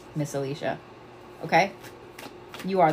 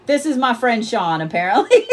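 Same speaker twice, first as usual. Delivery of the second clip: said through real laughter; laughing; 4 semitones higher, 4 dB louder than usual. Real, not acted. Streamer introduces ghost friend Sean, laughing. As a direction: get the words out while laughing.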